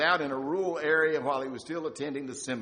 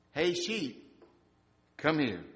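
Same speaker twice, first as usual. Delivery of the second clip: a calm call, barely raised; slightly raised call; 2 semitones higher, slower than usual. Retold or imitated. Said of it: "Raising his voice only slightly".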